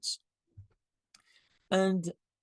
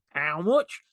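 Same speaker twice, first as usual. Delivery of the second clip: Leeds accent. Shown as a demonstration. Speaker redoes his local accent for Rob, in a Leeds accent. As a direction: repeat the blunt Leeds price question. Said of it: "I'll do it again".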